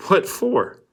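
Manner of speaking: high puzzled counselor voice; Mister Pendanski. A narrator's reading. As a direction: ask it high and offhand. Pendanski voiced in read story.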